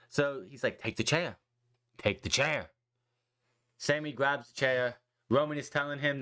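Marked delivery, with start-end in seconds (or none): 0.8-1.4 low, firm order to take the chair; Roman's command. Retold or imitated. Roman tells Sami to take the chair, firm. 2.0-2.7 menacing repeat. Retold or imitated. Roman pressing Sami again to take the chair, darker.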